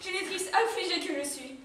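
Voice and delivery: sad. Acted. Mother laments her son leaving.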